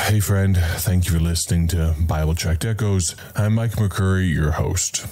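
flat, uninterested host greeting; bored greeting. Shown as a demonstration. Host demonstrating a bored welcome to listeners. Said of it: "think about the way I greet you".

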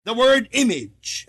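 IMAGE set apart with emphasis, falling at the end; stress on IMAGE. Real, not acted. Preacher pointing listeners to the key word, emphatic. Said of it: "I'm, I'm emphasizing".

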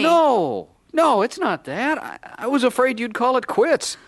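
very high, agitated denial; desperate protest. Acted. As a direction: plead your case over the accusation. Man defends himself in quarrel.

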